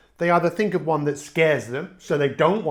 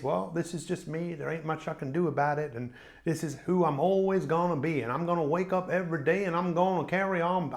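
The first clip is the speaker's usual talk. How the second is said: quieter, put-on American accent; 5 dB quieter than usual. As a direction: play the resigned type in an American accent. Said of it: "I'm talking in an American accent".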